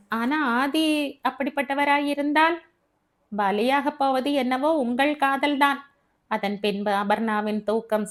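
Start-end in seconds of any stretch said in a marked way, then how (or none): 0.1-5.8 lightly voiced, higher-pitched friend; warning Devi. Devi warns Abi about her love, higher pointed voice.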